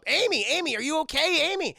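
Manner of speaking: high, loud imitation of alarm; acted anxious shout; worried calling. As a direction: call out to check on someone. Date calls to troubled girl inside.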